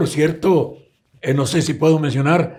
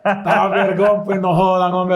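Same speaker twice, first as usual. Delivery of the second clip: put-on Salvadoran accent; 3 semitones higher, 4 dB louder than usual. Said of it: "les decía yo".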